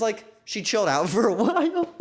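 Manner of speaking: words through laughter; laughing. Real, not acted. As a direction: laugh while telling it. Laughing at the story.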